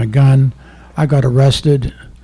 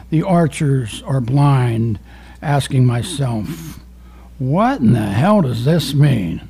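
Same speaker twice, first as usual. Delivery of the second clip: slow, measured poem reading; poetry reading. Acted. Poet reading his own poem to the audience, measured. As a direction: let each line land.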